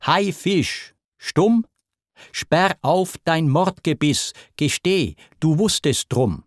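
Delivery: husband raging at a mute wife; furious demand. Acted. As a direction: shake the truth out of her. Zeus accuses his silent wife.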